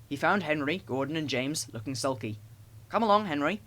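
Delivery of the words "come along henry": firm call. A narrator's reading. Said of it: "he said".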